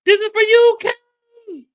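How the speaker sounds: high, loud dramatic villain line; high loud mock vengeance; hammed-up revenge line. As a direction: deliver it like an action hero.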